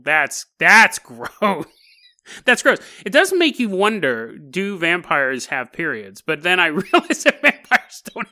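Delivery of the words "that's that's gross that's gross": grossed out. Real, not acted. Reacting to gross limerick.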